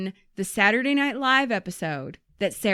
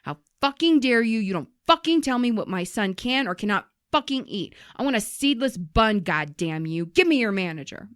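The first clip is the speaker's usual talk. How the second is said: mock outrage, only slightly raised; retold furious rant. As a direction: imitate a customer losing it, half-heartedly. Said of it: "the woman just loses her shit".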